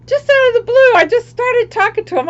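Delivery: laughing while talking. Real, not acted. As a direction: tell it while still laughing at yourself. Laughing while telling about photo.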